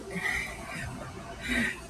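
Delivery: soft, breath-only chuckle; embarrassed little laugh; self-conscious laugh. Real, not acted. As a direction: laugh quietly at your own fumbled pronunciation. Laughs at own mispronunciation.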